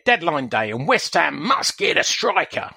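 slow read-out sliding into Australian; slightly Australian-sounding tweet reading; mistaken Australian accent. Acted. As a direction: read it out slowly with an accidental Australian twang.

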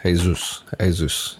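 "Jesus" said the Spanish way, hay-SOOS; "Jesus" with silent J and oo vowel; Spanish pronunciation. Shown as a demonstration. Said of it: "a lot of Mexicans call their kids".

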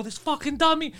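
retold explosion. Husband explaining how he exploded, high mock-angry retelling. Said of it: "So now I explode".

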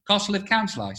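Stoke accent. Shown as a demonstration. Repeating it for the host, Stoke accent. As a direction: demonstrate the Stoke phrase for a learner. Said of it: "you do a Stoke thing".

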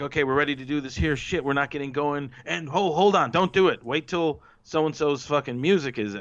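mock panic over a cue; flustered stage manager. Flustered backstage producer, imagined.

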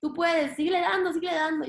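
a gentle push from the voice in your head; encouraging inner voice. Retold or imitated. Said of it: "esa vocecita".

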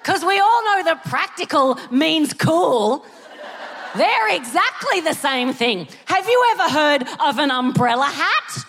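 drip sarcasm over practical; sarcastic retort. Retold or imitated. To the young optician, sarcastically mocking practical glasses. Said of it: "I'm like".

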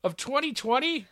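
laughing. Real, not acted. Laughing at outdated letter.

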